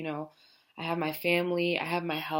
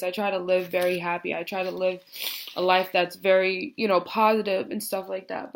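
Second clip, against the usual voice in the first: real tears still in a slightly raised voice; teary, emotional; 3 dB louder than usual. Real, not acted. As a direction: push through the words while choked up. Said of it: "I didn't think I was gonna get this emotional".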